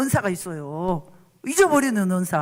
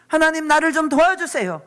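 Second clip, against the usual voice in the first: higher, louder plea to God; louder crying plea; 5 semitones higher, 4 dB louder than usual. Acted. 회중에게 죄인의 기도를 보여 주는 목사, 더 크고 높게 간청. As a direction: cry out to God for help.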